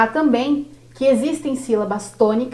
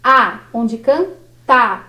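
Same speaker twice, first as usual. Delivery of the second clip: slow demo; much slower than usual. Shown as a demonstration. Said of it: "sendo uma vogal".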